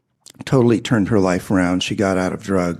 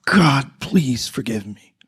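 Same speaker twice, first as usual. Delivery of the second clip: slow, strained prayer forced out through clenched teeth; through gritted teeth; 5 semitones higher, slower than usual. Retold or imitated. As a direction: grit your teeth and push each word out slowly. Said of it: "like, gritting his teeth".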